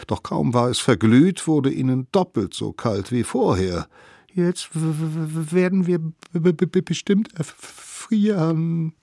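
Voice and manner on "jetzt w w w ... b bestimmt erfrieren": high stuttering shivering voice; shivering with cold. A narrator's reading. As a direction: teeth chattering through the words. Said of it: "bibberten sie".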